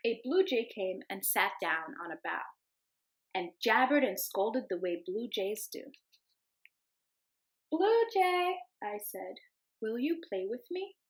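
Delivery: gentle storybook read-aloud; storybook voice for the class; reading to children. Acted. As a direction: read it like story time for little kids. Teacher reads picture book aloud.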